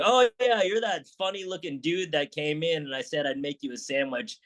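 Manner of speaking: sarcastic clapback. Retold or imitated. Owner clapping back at a Yelp reviewer, sarcastic. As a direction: hit a mocking "oh, yeah" high. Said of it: "I was like".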